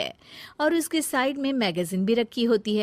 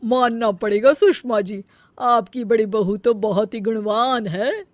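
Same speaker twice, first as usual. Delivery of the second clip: louder aunt's voice, full of praise; visiting aunt praising the food to Sushma; 7 dB louder than usual. Acted. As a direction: gush over the food like a guest aunt.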